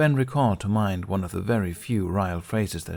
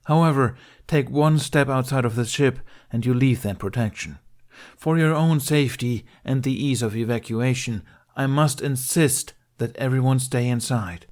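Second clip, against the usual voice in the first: crisp, louder, higher stern warning; enunciated; 5 semitones higher, 5 dB louder than usual. Acted. Ben warns refugees to stay aboard, enunciated. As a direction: spell out every word of the order.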